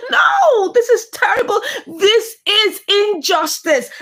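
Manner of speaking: real distress breaking through; tearful outrage. Real, not acted. Upset reaction to abuse scene.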